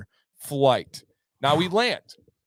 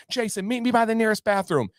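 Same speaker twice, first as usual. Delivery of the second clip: higher-pitched order to her husband; mock wife calling; 6 semitones higher than usual. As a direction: imitate a wife calling an instruction.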